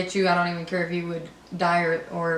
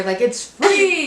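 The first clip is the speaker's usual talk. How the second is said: laughing; 9 semitones higher, 6 dB louder, much slower than usual. Real, not acted. Laughing while stressing a point.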